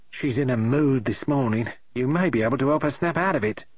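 lightly voiced brisk maid; a touch of a no-nonsense housemaid; maid Millie. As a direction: maid hurrying the visitor upstairs, lightly voiced. Maid Millie warns about mistress.

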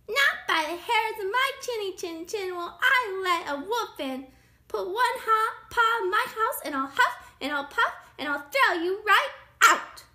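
high, loud storybook threat; rude pig shouting. A narrator's reading. Pig threatens the wolf at the door, shouting. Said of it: "shouted the rude little pig".

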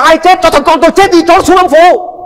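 high, pleading mother's voice; mother wailing about her son to the pastor; desperate mother. Retold or imitated. Mother voiced in retold story.

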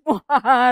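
short low villain laugh; a quick mad scientist cackle; evil laugh. Acted. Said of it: "Risa malévola".

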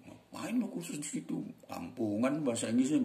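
a sneering friend mocking the course, voiced high; mock the learner from above. Teacher imitating a friend who mocks English learners, sneering.

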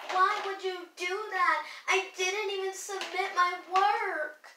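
high-pitched mock outrage; imitating mad sister. Retelling sister's anger over lost homework, mock mad. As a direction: wail it like an upset sister. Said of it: "she got so mad at me".

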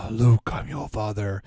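slow, loud Vader voice through a mask; lightly voiced Vader line; Darth Vader. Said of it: "do my Darth Vader impersonation".

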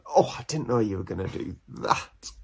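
soft, mildly put-out reply; a hint of hurt surprise, no anger; not even cross. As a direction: say it quietly, barely bothered. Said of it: "he's not even that cross either".

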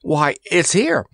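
mild, high-pitched cry. A narrator's reading. Randy making himself heard above the gale, mildly screaming. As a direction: pitch it up slowly over the gale. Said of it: "raise his voice to a scream".

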